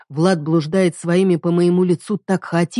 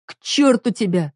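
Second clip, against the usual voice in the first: higher, curt curse; wife shoving husband away; angry dismissal; 4 semitones higher than usual. Acted. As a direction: push him away with the words. Pushing him away.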